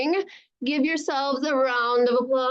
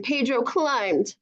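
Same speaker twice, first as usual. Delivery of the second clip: plain reading voice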